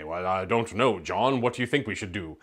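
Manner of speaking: put-on a second old-movie voice in a light mid-Atlantic accent; mock mid-Atlantic reply. Shown as a demonstration. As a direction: answer back in crisp mid-Atlantic style. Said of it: "both developed these kind of mid-Atlantic accents".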